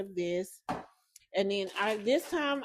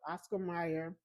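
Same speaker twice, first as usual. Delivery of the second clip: out of breath from a long phrase; running out of air, mildly out of breath; 4 dB quieter than usual. Real, not acted. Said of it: "I'm out of breath trying to say it".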